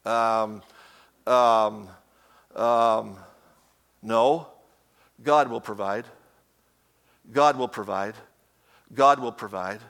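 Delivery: low, hesitant stalling father; stall, then answer low and slow; father dodging his son's question. Retold or imitated.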